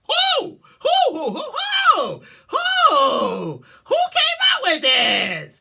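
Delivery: loud, high repeated who; exasperated shouting; outraged yelling. Real, not acted.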